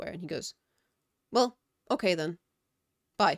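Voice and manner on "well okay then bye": mock bored tone, louder. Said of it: "he just sounded so bored".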